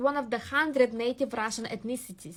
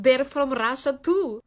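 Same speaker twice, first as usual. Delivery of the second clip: sarcastic retort; 7 dB louder, slower than usual. Retold or imitated. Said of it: "And I say".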